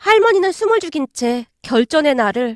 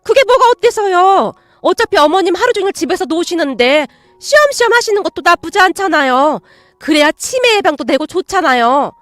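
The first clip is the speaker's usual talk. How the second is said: defiant aunt; 4 semitones higher, 4 dB louder than usual. Acted. Aunt's defiant reply.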